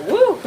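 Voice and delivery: "woo" rising into a laugh; excited whoop. Real, not acted. Card reader reacting to what they see, whooping and laughing. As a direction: let out a whoop that breaks into high laughter.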